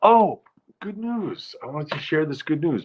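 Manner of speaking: delighted high "oh, good news"; excited announcement. Real, not acted.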